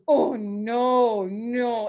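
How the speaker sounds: lightly voiced sympathetic grandma; imitating grandma. Teacher imitates grandma interrupting with a lightly voiced oh no. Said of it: "she goes".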